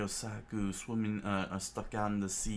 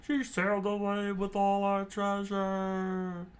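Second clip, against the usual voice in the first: higher, slow character line; higher lamenting voice; 12 semitones higher, 3 dB louder, slower than usual. Acted. Crew moaning Nami took the treasure, higher voice. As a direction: moan about the stolen treasure.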